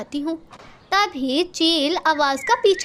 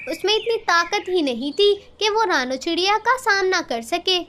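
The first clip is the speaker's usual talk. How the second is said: plain reading voice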